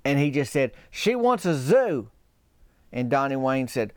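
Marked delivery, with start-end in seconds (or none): 0.9-2.1 slow, higher, dreamy mumble; a lovestruck fool stating the obvious; a hint of a dazed, sleepless brother; dazed Brett.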